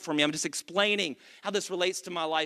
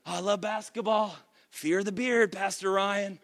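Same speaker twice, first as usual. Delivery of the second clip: mock churchgoer voice; 3 dB quieter than usual. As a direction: tease a congregant gushing about the Texans. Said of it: "I don't know why you're talking like this".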